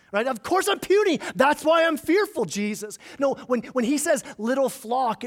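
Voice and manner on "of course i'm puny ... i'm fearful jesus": whiny sing-song. Pretend. Believer answering Jesus, high mock whine sung out. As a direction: play a petulant believer complaining.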